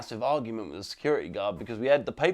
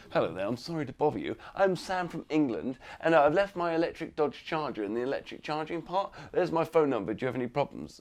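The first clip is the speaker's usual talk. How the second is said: soft, quick, sugary politeness; butter up the receptionist; softer mock-courteous Englishman at the desk; overly polite; 7 dB quieter than usual.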